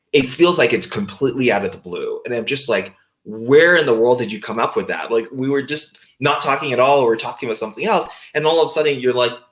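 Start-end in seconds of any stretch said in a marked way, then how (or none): none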